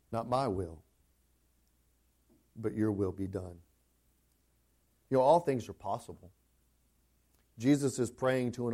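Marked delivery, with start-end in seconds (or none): 0.1-3.6 quiet surrender. Retold or imitated. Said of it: "Jesus' response".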